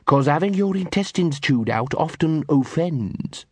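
slow, menacing growl; menacing dog voice. Acted. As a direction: threaten slowly like a thug dog. Butch threatens.

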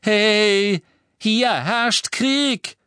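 loud, high, slow call to order. A narrator's reading. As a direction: raise your voice to break it up. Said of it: "hob er seine Stimme".

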